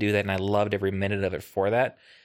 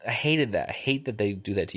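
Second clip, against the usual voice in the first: put-on grumpy old man. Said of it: "what's that old man voice that you're doing".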